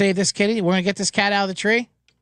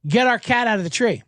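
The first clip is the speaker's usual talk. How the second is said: mock panicked girlfriend; 5 semitones higher than usual. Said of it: "She told my buddy Mike".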